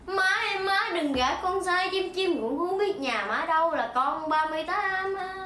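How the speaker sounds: bingo caller. Pretend. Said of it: "tôi sẽ chơi ông bài này".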